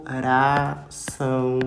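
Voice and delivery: coração said slowly with a long nasal ão; slow demo. Shown as a demonstration. Teacher repeating coração slowly for pupils. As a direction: stretch the ão of coração. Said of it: "ó".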